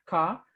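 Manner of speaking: car said formally with no final R; silent R. Shown as a demonstration. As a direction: drop the R at the end of car. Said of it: "formalnya iya".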